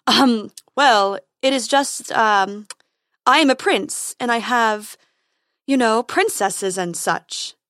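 hesitant, flustered prince; awkward nervous. Acted. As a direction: stammer it out nervously. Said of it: "cleared his throat awkwardly".

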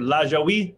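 Lajoie said "LAH-zho-wee"; older family pronunciation. Shown as a demonstration. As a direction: say Lajoie with three syllables, ending on "wee". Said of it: "I've heard".

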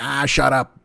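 lightly voiced grouchy boss; J. Jonah Jameson. Critic in his head cutting him off, lightly voiced grouch. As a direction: dismiss him with a hint of cartoon boss. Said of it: "why does J. Jonah Jameson sound like".

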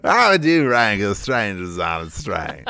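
words broken by laughter; teasing through helpless laughter; laughing. Real, not acted. Teasing mispronounced title.

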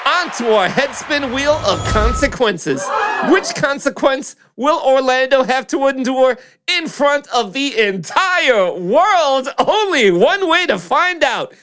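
excited host voice; game show host hype. Acted. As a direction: build the suspense for the spin. Host spins the wheel.

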